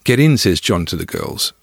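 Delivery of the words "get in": eager invitation. Retold or imitated. John invites girls into car.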